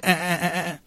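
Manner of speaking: high stuttering gun noise; imitated machine-gun fire. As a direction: rattle out a vocal machine gun. Imitates gunfire after war impression.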